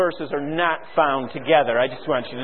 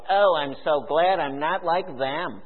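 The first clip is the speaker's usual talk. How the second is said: smug Christian. Retold or imitated. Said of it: "look down the end of our nose at the world and we go".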